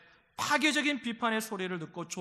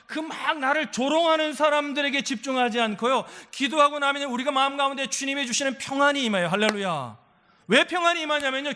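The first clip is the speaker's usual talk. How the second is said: loud, raised preacher's voice; forceful sermon delivery, pitched up; impassioned preaching; 6 semitones higher, 6 dB louder than usual. Real, not acted. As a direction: drive the point home to the congregation.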